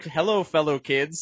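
lightly voiced Buscemi as an out-of-place adult; Steve Buscemi impression. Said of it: "Steve Buscemi style".

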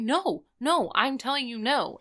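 mildly worked-up refusal; retold freak-out. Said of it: "He's, like, freaking out".

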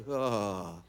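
long, low breathy groan; deflated groan. Retold or imitated. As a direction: groan low in dismay, retelling it. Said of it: "I was like".

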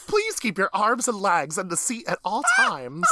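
polite cabin announcement; flight attendant voice. Retold or imitated. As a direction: recite safety rules like cabin crew. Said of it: "that just makes me sound like a flight attendant".

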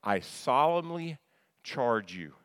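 slow, solemnly lifted and held; weighty quote. Shown as a demonstration. Preacher reading Paul's charge, slow and solemn. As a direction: read the verse like a command. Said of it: "Notice the phrase there".

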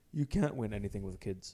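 put-on light Scottish pundit accent, low; a hint of a Scottish pundit, dry; mock Scottish pundit verdict; Alan Hansen impression. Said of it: "the last one was Alan Hansen".

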